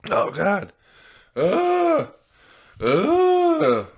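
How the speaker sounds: oh God, then high drawn-out wails; high-pitched wail. Real, not acted. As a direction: let out two long, high cries. Exasperated cries between story bits.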